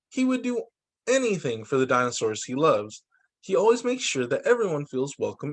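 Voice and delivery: bright, lively storybook reading; reading to children. A narrator's reading. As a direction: tell it like a fun picture book for kids. Reading story book aloud.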